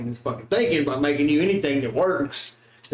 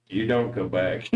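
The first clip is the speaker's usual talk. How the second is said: redneck drawl; 8 semitones lower than usual. Acted. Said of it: "That was a little redneck".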